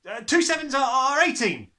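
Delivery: high, loud and stumbling; flustered. A narrator's reading. Frightened boy rushes his sums before the headmistress, high and flustered. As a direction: scramble for the answer in a panic. Boy scrambling under threat.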